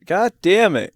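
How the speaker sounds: lightly voiced Texan dad; Hank Hill voice. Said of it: "I can't even do the voice right now".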